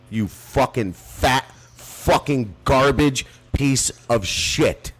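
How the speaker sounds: real anger at a doxing threat; furious insults. Real, not acted. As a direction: tear into him word by word. Furious rant at Lou.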